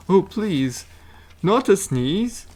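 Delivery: high pleading bear voice. A narrator's reading. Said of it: "said the bear".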